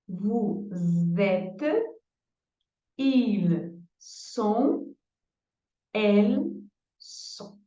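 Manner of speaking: être conjugated slowly, with pauses; slow French conjugation. Shown as a demonstration. Teacher conjugating être for Portuguese students. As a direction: drill each form clearly. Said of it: "Vou repetir".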